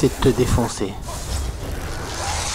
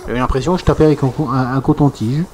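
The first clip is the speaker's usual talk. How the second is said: loud, worked-up and disbelieving; exasperated rant; 5 semitones higher, 8 dB louder than usual. Real, not acted. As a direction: vent about your hits doing nothing. Frustrated rant about damage dropping.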